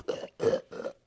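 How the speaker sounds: mock gagging cough in the throat; throaty imitation cough; demonstrated cough. Shown as a demonstration. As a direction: cough it up like bad syrup hit you. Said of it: "make you cough".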